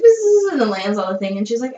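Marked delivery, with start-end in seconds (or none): 0.0-0.5 higher-pitched buzzing hum; imitated fly buzz. Friend recounting a movie scene, buzzing like the fly. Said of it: "And it's like".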